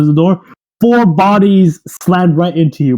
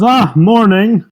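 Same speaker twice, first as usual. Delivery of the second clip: sleepy mayor voice; 4 semitones higher, slower than usual. Acted. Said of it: "the mayor says".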